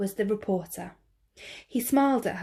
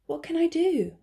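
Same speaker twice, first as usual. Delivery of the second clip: put-on raised girlish voice; 9 semitones higher than usual. Snow White voiced, small question.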